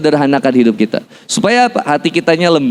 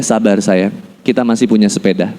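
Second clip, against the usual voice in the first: low, calm soothing; tender reassurance; 6 semitones lower than usual. Retold or imitated. Husband tells wife to be patient, tender. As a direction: soothe a loved one in a lowered voice.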